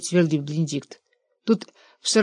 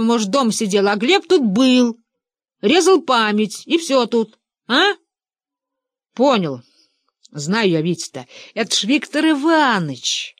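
heated insistence; 4 semitones higher than usual. A narrator's reading. Benedikt arguing with the old men, heatedly insistent. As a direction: insist hotly, building up.

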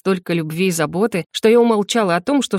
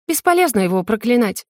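ordinary talk, nothing marked

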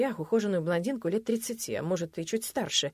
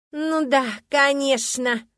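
вызывающее подтверждение; 7 semitones higher, 7 dB louder, much slower than usual. Acted. Любовница подтверждает с вызовом.

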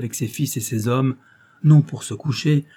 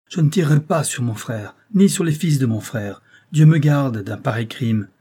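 s'écrier; 4 dB louder than usual. Acted. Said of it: "Mohamed s'écria".

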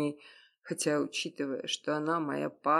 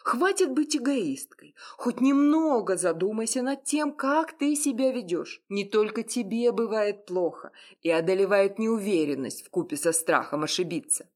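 higher, louder lecturing, cold and fed up; cold angry scolding; 6 semitones higher, 4 dB louder than usual. Acted. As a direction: scold her like a stern friend. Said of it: "злой и холодный голос Мака". (холодный злой выговор)

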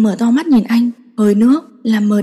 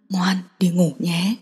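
soft, slow and lower; gentle, pleading; 3 semitones lower, 5 dB quieter, slower than usual. A narrator's reading. He softly begs his crying girlfriend to sleep, gentle and slow. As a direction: soothe her like a plea. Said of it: "trở nên dịu dàng".

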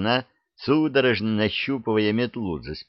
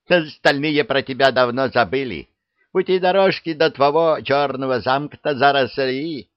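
higher witch voice, nagging; scolding witch; 5 semitones higher than usual. Acted. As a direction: nag him like an old crone. (ворчливая ведьма)

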